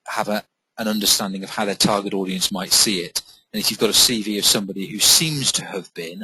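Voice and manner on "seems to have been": "seems" picked out with extra weight; stress on seems. Real, not acted. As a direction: lean on the word "seems". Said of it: "I stress the word seems".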